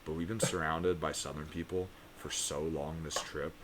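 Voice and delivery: put-on quiet, normal Connecticut accent; dropped Southern accent. Explaining the fake twang to strangers, normal Connecticut accent. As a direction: let the Connecticut accent settle in, softly. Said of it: "I dropped my accent".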